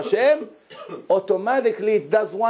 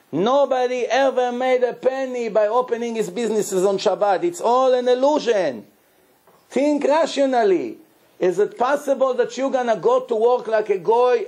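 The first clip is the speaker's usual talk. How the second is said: pleading rabbi; 6 semitones higher than usual. Retold or imitated. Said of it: "He's begging him".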